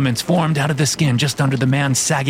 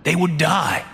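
swooping, theatrical villain boss voice; fat man explaining himself; 3 semitones higher than usual. Acted. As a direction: explain it away as a self-justifying boss.

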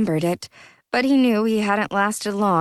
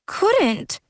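sniffling; 12 semitones higher than usual. Acted. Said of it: "Jack sniffled".

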